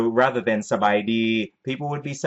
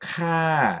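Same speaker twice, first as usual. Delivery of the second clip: falling tone on ka, high start; 6 semitones higher than usual. Explaining the polite ending kha, falling tone on ka. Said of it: "So this is falling, starting higher and falling".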